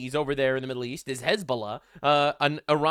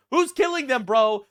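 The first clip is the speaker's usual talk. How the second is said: louder, higher outraged demand; exasperated shout; 5 semitones higher, 5 dB louder than usual. Real, not acted. Ranting at the UN over the killings, exasperated shout. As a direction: yell the question in disbelief.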